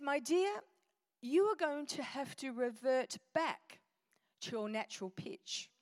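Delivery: mildly gentle, careful counsel; nice, gentle therapist. Retold or imitated. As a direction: advise kindly and deliberately, imitating a therapist. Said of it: "she spoke so nicely".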